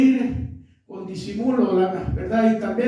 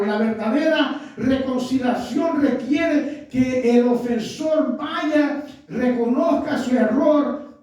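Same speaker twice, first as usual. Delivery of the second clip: fervent preaching. Real, not acted. Preaching at full force.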